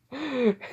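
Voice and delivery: high, short acted chuckle; acted laugh. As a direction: laugh as the amused son. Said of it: "As he just starts laughing".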